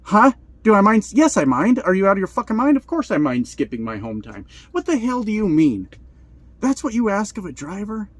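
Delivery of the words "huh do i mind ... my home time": outraged disbelief. Real, not acted. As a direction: fire back at the absurd ask. Outraged rant at dispatcher.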